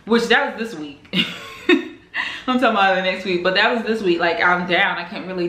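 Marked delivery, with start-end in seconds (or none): 1.1-2.4 airy giggle; a quick breathy laugh at herself; breathless laugh. Real, not acted. Catching her own mistake about the week, breathy laugh.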